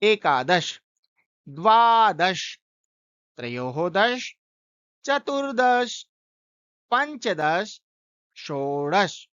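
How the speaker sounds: slow, deliberate counting, pausing after each; teacher reciting eleven to twenty aloud; careful recitation. Shown as a demonstration. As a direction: recite एकादश to विंशतिः with clear endings. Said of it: "इसका उच्चारण कर लेते हैं।".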